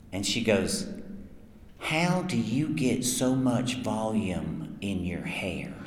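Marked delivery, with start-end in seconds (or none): 1.8-5.7 slow, quiet, earnest question; imitating the girlfriend. To the voice actor at the table, a fan's girlfriend asks, slow and earnest. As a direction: play her dead serious, eyes locked, asking slowly. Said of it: "this is a really good impersonation".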